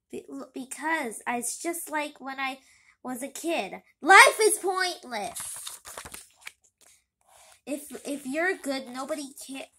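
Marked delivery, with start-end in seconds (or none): 4.0-5.4 loud, high, slow bitter declaration; despairing. Acted. Pity complains to his son, loud and slow.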